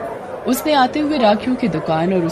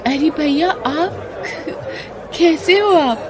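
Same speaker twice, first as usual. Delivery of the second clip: happy surprise; 9 semitones higher, slower than usual. Acted. Girl greets Aditya happily.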